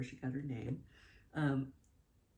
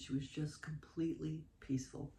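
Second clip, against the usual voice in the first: hushed whisper. Real, not acted. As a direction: whisper it gently. Describing her peaceful newborn daughter.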